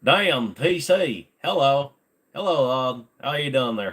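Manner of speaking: squeaky wooden dummy saying hi; ventriloquist dummy voice. Pretend. Playing a ventriloquist dummy greeting the chat.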